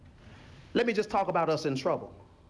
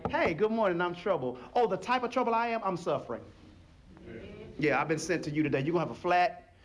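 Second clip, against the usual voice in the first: trouble personified; 4 semitones lower than usual. Retold or imitated. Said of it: "Trouble can come to anybody in here and say".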